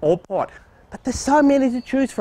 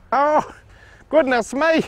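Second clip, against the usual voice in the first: hammed-up cry for help, pitch rising higher and higher; mock panic; 7 semitones higher than usual. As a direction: play being swamped by tomatoes, calling Rodney. Mock panic among falling tomatoes.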